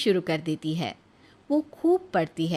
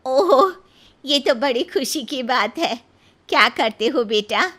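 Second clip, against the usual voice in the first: delighted mother-in-law; 4 dB louder than usual. Acted. Mother-in-law hearing a marriage proposal, delighted. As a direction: burst with joy at the news.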